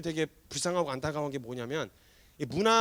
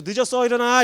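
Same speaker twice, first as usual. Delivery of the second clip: raised-voice call to get up; mother's wake-up call; 2 semitones higher, 5 dB louder than usual. Acted. Mother waking her child at dawn, raised urgent call. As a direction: hurry a sleeper out of bed. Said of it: "이렇게 깨우시거든요".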